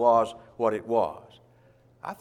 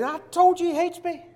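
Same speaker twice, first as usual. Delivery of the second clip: very high, mock-whiny king; petulant complaint. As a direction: complain in a much higher voice. Acted king complaining about prophet.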